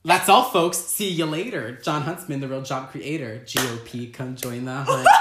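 lightly put-on TV personality; playful mock campaign slogans, starting loud; Abby Huntsman.

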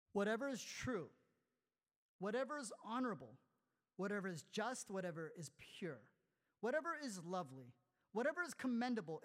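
measured, solemn reading of the verse; scripture reading. Acted. Pastor reading Paul's letter solemnly. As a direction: read each line with weight. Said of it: "And this is what Paul says".

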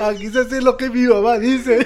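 laughing mock quote. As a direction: finish the teacher's line while laughing.

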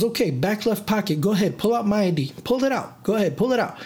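lightly acted, eager goading; mock excited. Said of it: "he's excited for them to pull out his I D".

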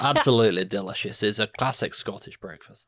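put-on Scottish accent; playful Scots sales pitch. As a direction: praise it in a mock Scottish accent. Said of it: "That's a really good Scottish accent".

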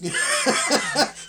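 high delighted giggle; a squealing burst of laughter. Real, not acted. Laughing at cat quote.

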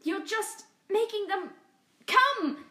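high, loud breathless warning; pinned cat warning her friend, gasping; gasped warning. Acted. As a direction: gasp it out in panic. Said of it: "she gasped".

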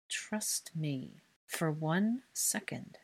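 very soft, slow, lips barely moving; through gritted teeth. Acted. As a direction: hiss it so only he can hear. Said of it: "she spoke through her teeth".

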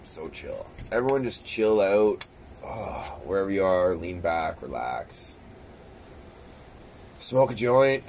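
hushed, slow calming voice; mock meditation calm; mock soothing. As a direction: ease everyone into relaxing. Soothing chill instructions.

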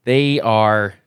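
steady storyteller recap voice; game master narration. Acted. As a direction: set the scene for the players. Game master's scene setting.

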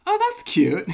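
high, loud cooing; mock delight. Reacting to putties in football pads, high mock cooing. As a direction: coo it like at a baby animal. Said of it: "And it's like".

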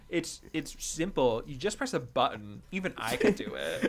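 imitating a sassy character, understated; retold TV sass. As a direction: toss it off with mock condescension. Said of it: "with the same incantation".

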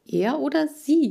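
SIE hit high and loud, falling; stress on SIE. A narrator's reading. Kira stresses "sie" to her friends. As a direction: lean hard on "sie" after "Er oder". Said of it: "betonte Kira".

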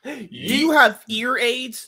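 a mock slow repeat of the same question; slow mocking drawl. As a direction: drag every word out to tease him.

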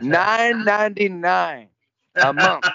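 slow huckster price pitch; mock sales pitch. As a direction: sell it like an infomercial.

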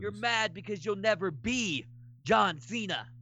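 cocky heel wrestler taunting the crowd; trash-talk the booing fans like a heel; wrestling promo. Pretend. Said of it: "cut your promo".

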